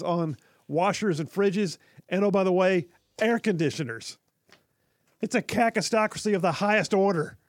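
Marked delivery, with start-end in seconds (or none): 5.2-7.4 high, loud rallying cry; fiery revolutionary speech. Acted. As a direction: rouse the crowd to rise up. Rallying call to rise up.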